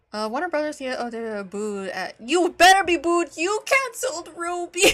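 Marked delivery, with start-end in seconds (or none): 2.2-4.9 loud, high angry jeering; furious heckle at the screen; yelling at him. Real, not acted. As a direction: boo him down with a shout. Yelling at Zaslav on stream video.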